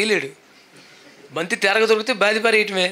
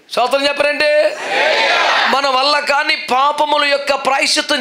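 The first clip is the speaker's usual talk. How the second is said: louder and higher, fervent preaching, building to shouts; preaching at full force; 6 semitones higher, 3 dB louder than usual. Acted. Preacher calling out to listeners everywhere, fervent and loud. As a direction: preach it out, swelling with each line.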